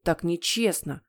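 understated, grumpy complaint; sulky frown. Acted. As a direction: grumble it as a sulking boy. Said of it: "нахмурился Генри". (хмуро, обиженно)

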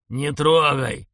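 loud shouted warning. Acted. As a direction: yell it as a warning. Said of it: "орал за спиной дед".

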